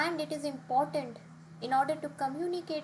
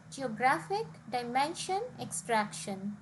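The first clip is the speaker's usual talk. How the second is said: "geographic, dimension, extraction" as geo-GRA-phic, di-MEN-sion, ex-TRAC-tion; "geographic, dimension, extraction", each weighted just before its ending; stress on second-last syllable. Shown as a demonstration. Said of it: "stress would be on the second last syllable".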